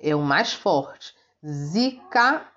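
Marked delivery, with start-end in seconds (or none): 1.4-2.4 "Zica" as two separate, higher-pitched syllables; teacher isolating "Zica"; isolated weak syllables. Shown as a demonstration. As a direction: lift "Zica" out of the word, syllable by syllable. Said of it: "são as sílabas mais fracas".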